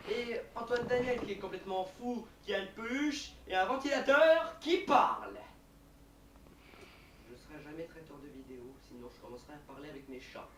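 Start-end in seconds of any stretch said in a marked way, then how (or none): 0.1-5.3 loud, high presenter hype building to a shout; increasingly loud, high-pitched exclamation; mounting disbelief. Shown as a demonstration. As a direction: build to a shouted punch on the last words. Presenter hypes a crazy character.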